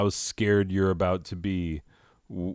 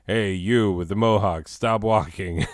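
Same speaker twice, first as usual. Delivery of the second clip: loudspeaker cop; 3 dB louder than usual. Retold or imitated. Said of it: "over the loudspeaker, they're like".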